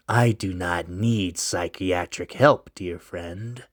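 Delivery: low, slow and hushed stranger; mysterious stranger. Acted. Mysterious stranger answering Loris, low and slow. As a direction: keep it low and secretive.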